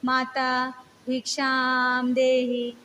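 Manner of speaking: slow, gentle plea, drawn out; a beggar's patient, loving call for alms, said slow and gentle; loving softness. Retold or imitated. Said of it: "वो प्यार से बोलता है".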